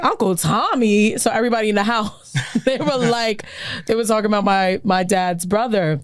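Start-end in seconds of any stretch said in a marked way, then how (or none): 0.0-1.2 mock startled question. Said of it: "they was like".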